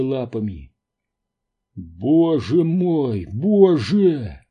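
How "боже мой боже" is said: drawn-out, higher breath of awe; awed whisper, voiced. A narrator's reading. Квентин sees living Cambrian creatures, awed. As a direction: marvel slowly, a whisper only in intent. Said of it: "прошептал Квентин".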